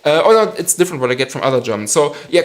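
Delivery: ordinary talk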